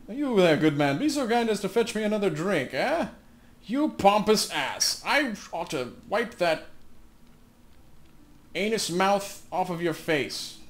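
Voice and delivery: loud, haughty tavern-lord voice, slowing at the insult; mocking drunk lord. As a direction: sneer down at a commoner, then drag out the insult. Reads a drunk lord's taunt.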